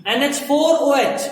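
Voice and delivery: slow dictation. Shown as a demonstration. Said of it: "देखो सही से लिख देना है".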